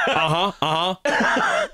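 jaw stuck open. Acted. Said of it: "my jaw is stuck".

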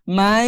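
"মাই" stretched on a nasal hum; held ghunna. Shown as a demonstration. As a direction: hold the nasal glide in "মাই". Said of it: "মাই বলে আমি যে সময় দিচ্ছি".

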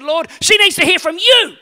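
laughing prayer. Retold or imitated. Soaked, praying in exasperation.

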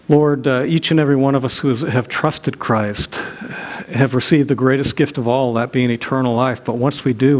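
earnest pastor's closing prayer. Real, not acted. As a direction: pray sincerely over the congregation.

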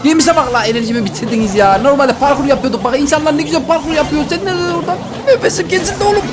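out of breath talking; gasping between words; breathless. Real, not acted. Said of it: "nefessiz niye konuştum lan".

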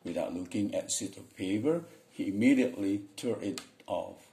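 ordinary delivery

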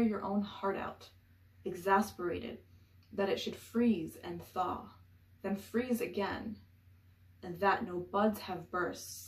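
emphatic opening settling into measured verse; deliberate poem recital; poetry reading. Acted. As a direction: recite it line by line, pausing at the breaks. Reads a poem aloud.

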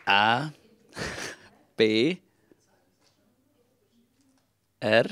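spelling it out. Real, not acted. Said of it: "wie würdest du Erdbeertörtli buchstabieren".

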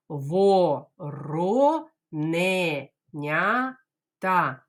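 Вороненята very slow, syllables separated; teacher drills Вороненята slowly. Shown as a demonstration. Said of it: "Давайте по складах".

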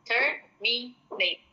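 "Terminate." drawn out slowly; slow drill. Shown as a demonstration. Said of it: "repeated pronunciation drill". ("Terminate." dibaca sangat pelan)

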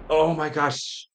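high, loud, drawn-out gasp of disbelief; can't believe what just happened, stretch it; stunned oh my gosh. Real, not acted. Player stunned as the rivals spare him, drawn-out disbelieving gasp.

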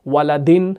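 ولدن ending in "-din". Shown as a demonstration. Teacher reciting the third case, -in ending on ولدن. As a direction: say ولدن as waladin, short i before the n. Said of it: "اس کی تینوں حالتیں کون سی ہیں؟".

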